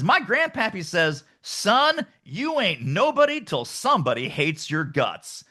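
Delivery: lightly attempted Cajun grandpappy saying; attempted Cajun accent. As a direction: have a rough go at a Cajun accent. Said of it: "I can't do the Cajun accent, so bear with me on this".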